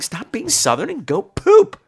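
slow, exasperated scolding. Retold or imitated. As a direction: chide him into going. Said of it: "I'm like".

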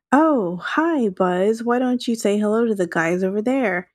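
overdone friendly call to the guys; exaggerated voice. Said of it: "in an exaggerated voice".

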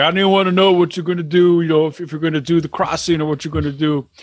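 light Brooklyn Italian-American impression; Brooklyn Italian accent. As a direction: badly mimic him with a Brooklyn accent. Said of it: "He is not an Italian man from Brooklyn".

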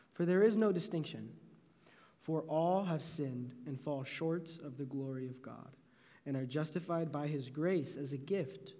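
measured, solemn Bible reading; a preacher reading Romans to students; scripture reading. Acted. Reads scripture verses aloud.

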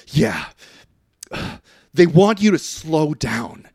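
sigh, then reluctant news-breaking; mildly upset, retold. Damon breaking bad news to Bale, mock upset. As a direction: heave a sigh and admit it slowly. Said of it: "he sees Damon very upset".

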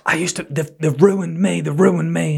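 mock her wailing that she's ruined; imitating a distraught woman. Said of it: "she went".

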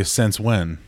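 "Since" said like "sense", Minnesota vowel; Minnesota accent. Shown as a demonstration. Showing how people here say it, Minnesota accent. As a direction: Minnesotan "Since when", I turned to E. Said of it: "Minnesota ones are I's and E's".

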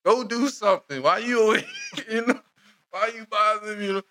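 high, bristling street talk; mock street tough. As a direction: shoo off the intruder. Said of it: "voicing a hood robot scene".

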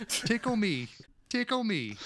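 high, slow silly voice for the ape; mock gorilla voice. Imitating the movie's gorilla begging to be tickled, high and slow. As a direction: coo it like a smitten animatronic gorilla. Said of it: "love between a man and his gorilla".

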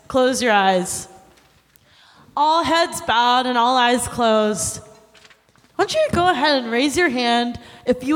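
solemn revival preacher calling hands; preacher altar call. Acted. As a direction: lead the altar call like a pastor. Leads an altar-call pledge.

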